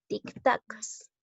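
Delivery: "tic-tacs" slowly split in two; syllable by syllable. Shown as a demonstration. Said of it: "Vamos a silabear".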